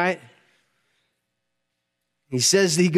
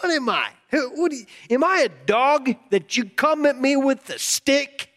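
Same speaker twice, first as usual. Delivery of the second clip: higher-pitched incredulous mock taunt; 5 semitones higher than usual. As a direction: sneer it as a retold giant's challenge. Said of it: "mocks him".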